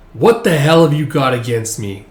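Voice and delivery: acted anger, not yet yelling; angry accusation. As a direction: demand an answer with resentment. Drunken accusation, first take.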